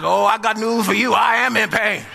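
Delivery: mildly hammed-up protest, holding back a laugh; retold yell. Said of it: "I've yelled out many times".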